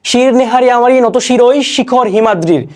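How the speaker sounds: slow, stately verse reading; slow declaimed poetry; poem recitation. Shown as a demonstration. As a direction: draw the line out with pride.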